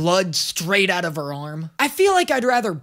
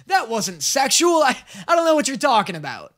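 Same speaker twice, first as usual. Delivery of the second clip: mock flustered denial; 4 semitones higher than usual. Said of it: "the show eventually breaks it up and goes".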